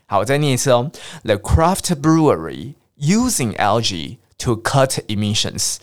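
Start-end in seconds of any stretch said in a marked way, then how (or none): 1.2-5.8 The craft brewery / using algae / to cut emissions, slow, paused between chunks; phrased with pauses. Shown as a demonstration. Teacher rereading the headline for learners, slow phrase breaks. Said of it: "你要会断句哦".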